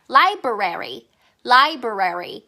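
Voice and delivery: library said slowly in two beats, lai-brary; library को धीमे से, लाइ-ब्रेरी बोलें; easy library. Shown as a demonstration. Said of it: "이러면 조금 더 쉬워요".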